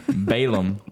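slow, put-on goofy preacher voice; silly voice. Podcast host slipping into a silly voice. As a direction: drag it out in a goofy voice. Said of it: "Why is the voice happening?".

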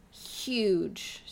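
whispering. Real, not acted. Dramatic hush on catastrophe.

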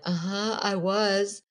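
high-pitched imitation of tearful answers; mock hysterical crying. Crash victim answers the ambulance man, imitating hysterical crying. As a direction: play up a weepy, overwrought reply. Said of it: "I start crying hysterically".

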